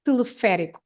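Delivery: "teleférico" with the third syllable stressed. Shown as a demonstration. Guest summing up the accent rule, clear stress on FÉ. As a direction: lean on the "fé" of "teleférico", unhurried. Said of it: "you have to stress that".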